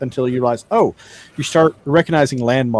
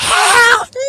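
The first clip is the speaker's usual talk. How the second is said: very high, shrill, loud top-of-the-lungs wail; 5 dB louder than usual. Game master voicing a cry the elf character hears: very high-pitched shrill voice. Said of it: "a very high pitched shrill voice going".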